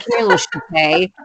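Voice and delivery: light mock French lilt on Shitay; little Frenchy. Calling her cat with a light mock French accent. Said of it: "make it a little Frenchy".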